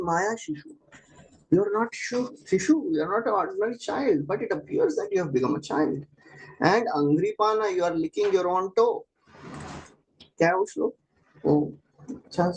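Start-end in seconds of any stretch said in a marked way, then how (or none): 0.0-9.1 higher, tender mother's voice; Devahuti speaking. Retold or imitated. Devahuti addresses baby Krishna on the leaf, higher and adoring. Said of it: "She's saying".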